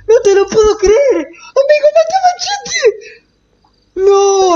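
hammed-up sobbing wail, pitched high; fake-sob it over your dead friend; mock crying. Mourns killing his friend Machete.

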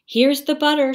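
high, loud happy shout; excited shout. A narrator's reading. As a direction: shout it out proudly. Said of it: "shouted Jack".

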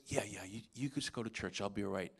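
soft, low, drowsy mumble of a dazed father. Retold or imitated. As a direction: mumble it, half out of it.

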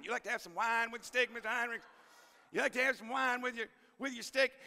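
put-on high, loud teasing Southern kid; Leroy's voice. Teacher imitating student Leroy begging about his food, high and loud. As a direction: coax the teacher about steak, pitched high. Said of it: "He's just super interested in my food".

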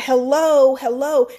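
loud, emphatic hello; calling out. Real, not acted. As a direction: call out to the viewers. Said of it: "calling out to viewers".

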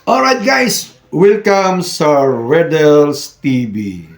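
high, loud, slow channel welcome; excited intro. Real, not acted. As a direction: call out the welcome with energy.

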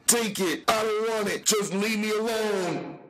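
high panicked begging; desperate pleading. Acted. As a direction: beg him to leave you alone. Tubby begging Tank to stop.

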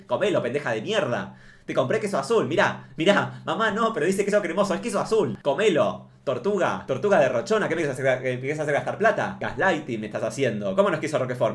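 mother insisting to daughter the cheese is blue cheese, mock bossy; mock pushy mother. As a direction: push the moldy cheese on her. Acting mother forcing moldy cheese.

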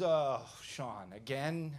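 imitating a cocky gatekeeper; smug, weary retold question. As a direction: question it like you've caught him out before. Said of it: "he gets cocky".

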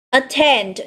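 attend with stress on TEND; stress on second syllable. Shown as a demonstration. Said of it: "cũng sẽ nhấn vào âm thứ hai". (nhấn âm hai của attend)

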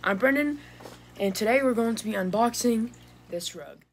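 just woke up, groggy husky voice; tired morning voice, still half asleep; sleepy husky good morning. Real, not acted. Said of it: "sorry if I sound a little weird, I just woke up".

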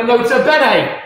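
sing-song mock Italian accent; playful Italian accent. Shown as a demonstration. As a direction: say it with an Italian flourish. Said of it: "Gotta say it with an Italian accent".

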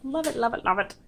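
"Love it, love it" squeaked up high. Real, not acted. Gushing over a gift from Jess, "love it" squeaked high. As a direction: chirp "love it" in a high sing-song. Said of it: "my voice can change".

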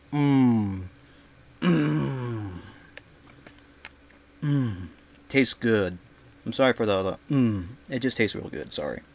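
talking while chewing cookie; muffled by food in mouth; mouth full, chewing. Real, not acted. Seen 0: Just ate cookie; lips pursed, jaw working, apologizes mid-chew.

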